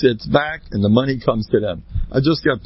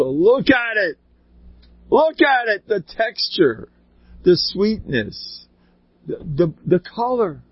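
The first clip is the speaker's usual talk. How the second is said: rapturous wonder; 7 semitones higher than usual. Acted. Preacher urging listeners to marvel at watermelon, high and rapt. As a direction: savour every word in awe.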